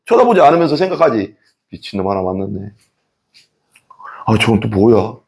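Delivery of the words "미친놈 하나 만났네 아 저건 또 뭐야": low, softer grumble to yourself; a quiet scoff at a stranger; muttered thought. Retold or imitated. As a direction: say it only in your head. Inner judging thought.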